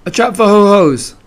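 high, loud, a touch husky. A narrator's reading. Piglet explains his trap, huskily. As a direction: force out a lightly husky bluff. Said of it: "said Piglet huskily".

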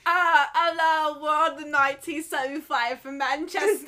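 high, loud mock Manchester accent; hammed-up British rocker greeting a crowd; put-on Manchester accent, stretched out; imitating a rock frontman. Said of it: "I think that the singer's in the room".

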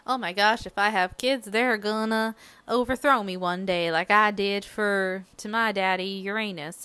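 a hint of a worried god-king, half-hammed; Kronos voice. Kronos frets his kids will overthrow him, lightly voiced. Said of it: "I suddenly started talking like that".

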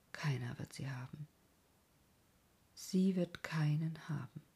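low, quiet, unmoved reply; wholly composed. A narrator's reading. Prisoner answers Werther at last, low and composed. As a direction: answer softly and calmly, with long pauses. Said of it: "versetzte endlich ganz gelassen".

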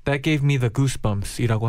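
very slow, careful English; slow teaching voice. Shown as a demonstration. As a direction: say it slowly for learners. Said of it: "하면 될 것 같아요".

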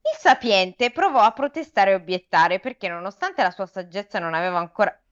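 measured read-aloud storytelling; expressive audiobook-style narration; story narration. A narrator's reading. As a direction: read the fable to listeners. Reads the fable aloud.

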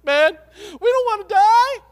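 loud, high pleading proclamation; desperate royal decree. Acted. King of Nineveh ordering even the animals to fast, loud desperate proclamation. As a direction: cry it out like a king begging for mercy.

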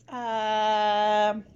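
put-on a light, tentative mid-Atlantic accent. Jokingly trying a mid-Atlantic accent on a co-host. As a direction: try out a hint of a mid-Atlantic accent, then give up. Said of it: "Did you just put on a mid-Atlantic accent?".

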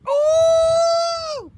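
a high, delighted ooh; light up at the question; a sudden high squeal of delight; excited ooh. Real, not acted. Reacting to favourite anime arc question.

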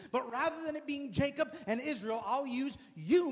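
exasperated God. Acted. God voiced in Bible retelling.

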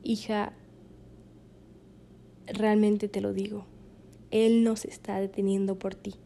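hushed, lightly imitated serious father; severe, grave father. Father counsels heartsick daughter, quiet grave imitation. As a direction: play dad gravely and softly, with long pauses. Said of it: "con voz severa, ¿no? O sea, grave".

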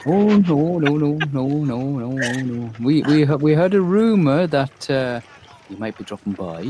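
high, fluster-flapping guard, backpedalling; a guard caught out, tripping over his no's. Acted.

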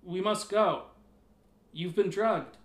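raspy. Acted. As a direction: rasp it urgently. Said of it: "Hanu rasped".

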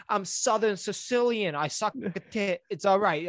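mock Sicilian excuse. Mock excuse for groping greeting.

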